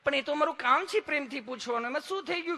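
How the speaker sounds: very high, sweet sing-song; exaggerated affectionate nurse voice; lovingly asking nurse. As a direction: coo it up high to the patient. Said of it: "તમે કેટલું પ્રેમથી પૂછો છો".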